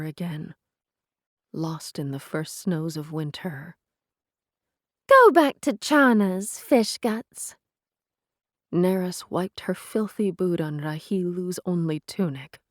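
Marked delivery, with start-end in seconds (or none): 5.1-7.5 sneering. A narrator's reading. Neris sneers.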